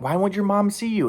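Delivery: put-on girlfriend asking. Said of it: "she's asking".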